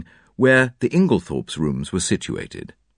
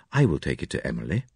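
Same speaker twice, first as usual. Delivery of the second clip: lower man's voice; 7 semitones lower, 5 dB quieter than usual. A narrator's reading. Inglethorpe voiced in story.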